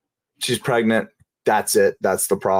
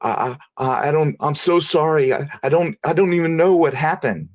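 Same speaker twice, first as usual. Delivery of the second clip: higher, stammering apology in the wife's voice; wife apologizes to her husband after hitting him, stammering; shaken apology; 5 semitones higher than usual. Retold or imitated. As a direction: stumble over the words, distraught and sorry. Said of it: "She starts shaking".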